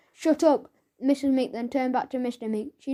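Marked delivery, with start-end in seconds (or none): 0.1-0.7 a louder, rude shut up; bratty girl snaps at her mother. Acted.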